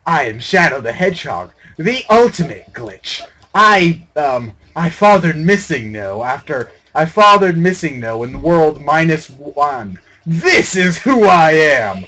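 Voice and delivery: hammed-up brooding hero, slow and grand; lightly voiced edgy hedgehog boasting; mock Shadow speech. Gamer mocking the glitching Shadow as a brooding hero, hammed-up speech. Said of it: "I'm not very good at making Shadow speeches".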